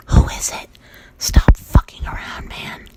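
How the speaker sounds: hissed yell at the door; whispered yell. Retold or imitated.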